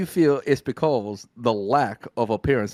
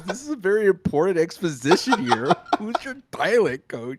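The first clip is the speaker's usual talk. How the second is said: laughing quote; 4 semitones higher than usual. Retold or imitated. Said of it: "He goes".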